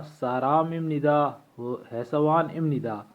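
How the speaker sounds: "ام ندا" with m before n in both examples; as pronounced. Shown as a demonstration. Teacher giving further examples to learners, "ام ندا" said with nasal m. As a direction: end each on im-ni-da, "ام ندا". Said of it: "یہ پڑھا جائے گا".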